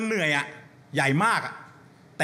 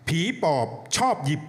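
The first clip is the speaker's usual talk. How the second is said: poem recital. Acted. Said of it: "วันนี้ผมมีบทกลอนมาฮะ".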